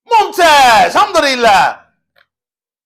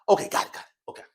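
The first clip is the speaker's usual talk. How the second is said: muttered aside; 7 dB quieter, faster than usual. Real, not acted. Recalls, mutters to himself.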